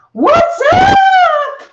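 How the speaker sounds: very high, loud commercial voice, drawn out upward. Reading out a message Blake sent, in Blake's 7-Up voice. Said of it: "I have to do it in his 7-Up voice".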